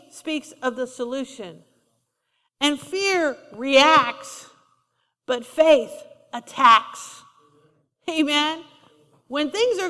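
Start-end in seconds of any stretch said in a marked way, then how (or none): 2.6-7.2 slow, stressed contrast on reacts and attacks; punchline emphasis. Shown as a demonstration. Preacher driving home fear versus faith, emphatic. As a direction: land the final word attacks hard. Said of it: "sermon punchline contrast".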